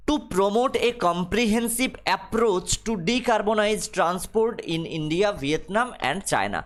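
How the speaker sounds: reads the English line very slowly, word by word; slow dictation reading. Acted. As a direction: spell it out for the class at dictation pace. Rereads the same English line. (ধীরে ধীরে ইংরেজি পাঠ)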